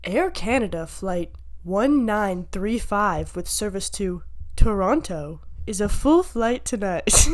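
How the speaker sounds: slow announcer voice; airport announcer voice. Shown as a demonstration. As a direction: read it like a gate announcement. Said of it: "Do you wanna hear it?".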